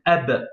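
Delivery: Ab ending on a bare b, no vowel after it; blocked final letter. Shown as a demonstration. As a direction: stop Ab dead on the b. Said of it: "on bloque la lettre". (Ab, le b bloqué sans voyelle)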